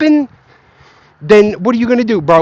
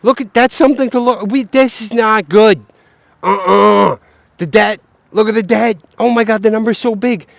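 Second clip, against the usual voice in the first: mocking worried people. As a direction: parody the hand-wringers staring at the debt. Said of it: "people have always been saying".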